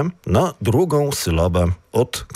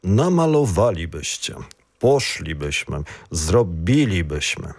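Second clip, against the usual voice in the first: "Namalowalibyście" stressed on LI, "zrobilibyśmy" on RO; fourth syllable from the end; 4 semitones lower than usual. Shown as a demonstration. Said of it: "на четвертий склад від кінця".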